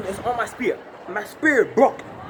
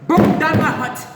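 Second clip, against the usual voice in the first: outraged shout; 6 semitones higher, 6 dB louder than usual. Acted. Elephant wrecks hut, outrage.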